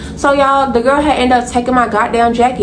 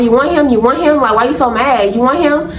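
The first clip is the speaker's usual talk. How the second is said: higher-pitched mock questioning; taunting; 3 semitones higher than usual. Narrator accuses the girl of wanting him, taunting. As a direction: needle them with repeated, lifted questions. Acted taunting in a retold quarrel.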